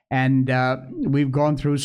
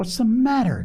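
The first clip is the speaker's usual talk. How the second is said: breathless, high, gasped; 9 semitones higher than usual. Polly finds Phronsie crying bitterly in the rocking chair: gasped. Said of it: "gasped Polly".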